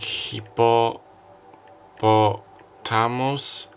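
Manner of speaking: very slow hippopotamus, each syllable stretched; drawn-out word. Shown as a demonstration. Reader looks up the card, drawing out Hippopotamus very slowly. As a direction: savour Hippopotamus slowly, holding the last s. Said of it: "Hippo-, hippopotamus".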